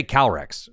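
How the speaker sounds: Calyrex run together as "Cal-rex"; middle roll dropped. Shown as a demonstration. Caster showing what you can't say, Calyrex squashed to "Cal-rex". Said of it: "'cause that's not correct".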